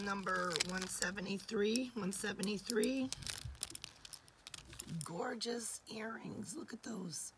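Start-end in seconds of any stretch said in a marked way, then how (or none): 5.0-7.3 whisper. Real, not acted. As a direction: hush it in admiration. Whispered while showing earrings.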